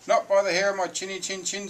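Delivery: high, loud piggy squeal. A narrator's reading. Pig refuses the wolf at the door, squealing. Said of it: "squealed the pig".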